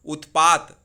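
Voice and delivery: उत्पात जोर से, अंतिम त पूरा; शब्द पर ज़ोर देकर बोलें; emphatic word. Shown as a demonstration. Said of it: "त में हलंत हट जाएगा". (उत्पात ऊँची आवाज़ में)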